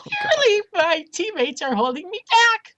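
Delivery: very high adolescent squeak with a voice crack; squeaky cracking voice. Pretend. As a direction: squeal it like a prepubescent boy, voice cracking. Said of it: "Add a voice crack".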